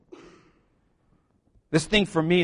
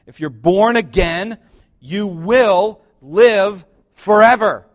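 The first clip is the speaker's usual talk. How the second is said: louder, slower call building to forever; preaching build; 4 semitones higher, 10 dB louder, much slower than usual. Acted. Preacher proclaiming to the congregation, slow and loud. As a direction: drive it home to the church. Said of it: "let me say it again".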